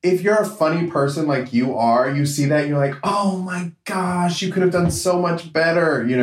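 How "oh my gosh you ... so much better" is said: mock dismay. Acting out a funny person's reaction.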